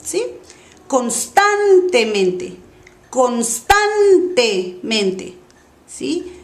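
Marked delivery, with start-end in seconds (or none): 0.9-2.5 'constantemente' very slow, STAN stretched long; exaggerated stress. Shown as a demonstration. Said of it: "voy a exagerar primero". 3.1-5.3 'constantemente' extremely slow, syllables pulled apart; exaggerated stress. Shown as a demonstration. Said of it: "voy a exagerar primero".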